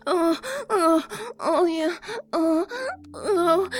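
moaning between words; acted moans, gradually building. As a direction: let cries of pleasure slip in. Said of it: "hear my moans".

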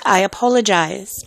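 mock-British apology; bad British accent. Shown as a demonstration. Host apologizing for the joke, bad British accent. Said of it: "post in a bad accent".

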